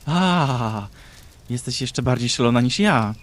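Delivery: loud startled outcry. Acted. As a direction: yelp as fire hits her. Mad woman caught by fire.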